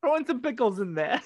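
put-on Brooklyn deli order; mock New York accent. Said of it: "with a Brooklyn accent or a New York accent".

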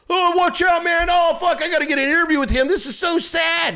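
high, put-on frantic voice; exaggerated fretting, dragged out at the end; mock panicked sympathy. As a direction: imitate a breathless headline chaser, high-pitched. Mocks media figures rushing to sympathize.

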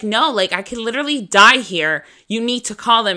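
re-enacted urgent insistence; dramatic panic. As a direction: plead with mom, mildly hammed-up panic. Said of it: "I'm dramatic like that".

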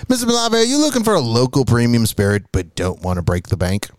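upbeat sponsor read; chipper 1950s ad. Acted. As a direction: sell it like an old radio ad.

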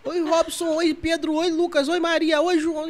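rapid high-pitched chirpy greetings; streamer greetings. Retold or imitated. Mocking the streamer greeting her chat, high and chirpy. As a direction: rattle off hellos like a busy streamer.

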